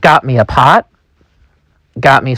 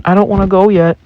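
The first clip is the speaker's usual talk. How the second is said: higher-pitched voice for a reluctant man; voiced a little high, reluctant; reluctant friend; 7 semitones higher, faster than usual. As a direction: plead lightly to stay.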